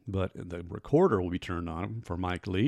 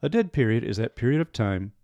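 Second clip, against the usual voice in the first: lightly put-on lecturer, louder; lecturing voice; 2 semitones higher, 5 dB louder than usual. Host reading out the official dead period definition, mock lecturing. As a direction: recite it with a touch of the lecture hall. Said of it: "in my best lecturing voice".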